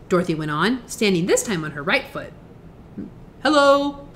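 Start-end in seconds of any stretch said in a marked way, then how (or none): 3.4-4.1 calm, plain greeting; a simple untroubled hello. A narrator's reading. Tin Woodman answering Dorothy's magic words, calm. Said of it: "replied the Tin Woodman calmly".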